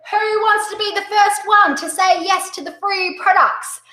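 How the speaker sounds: rally the room with a big smile; upbeat sales pitch. Retold or imitated. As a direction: hostess rewards pitch to the party group, smiling and upbeat. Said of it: "I did the group bookings pitch".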